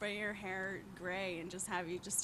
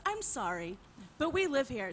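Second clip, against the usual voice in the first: prim, slightly raised and louder sorry, but we live here; lightly imitating a prissy neighbor; mock polite neighbor; 3 semitones higher, 4 dB louder than usual. Friend retells the neighbor's words, prim and mock-polite. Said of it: "but she said".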